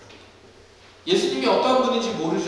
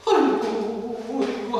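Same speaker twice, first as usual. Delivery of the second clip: mock wailing; much slower than usual. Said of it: "하면서 울고 있는 겁니다".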